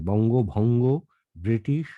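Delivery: বঙ্গভঙ্গ and ব্রিটিশ set apart, each ending on a rise; teacher listing বঙ্গভঙ্গ and ব্রিটিশ clearly; careful pronunciation. Shown as a demonstration. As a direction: cite বঙ্গভঙ্গ, ব্রিটিশ as model words. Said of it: "এই উচ্চারণগুলো একটু খেয়াল রাখবেন".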